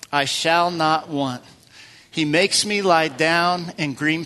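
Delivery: slow, measured psalm reading; scripture reading. Acted. Pastor leads the congregation through Psalm twenty-three, slow and measured. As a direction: read each line slowly and reverently.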